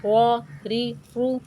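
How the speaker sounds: put-on clear, measured syllable drill for children; teaching drill. Shown as a demonstration. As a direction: sound out each syllable for the class. (بچوں کو ہجے سکھانے کا انداز)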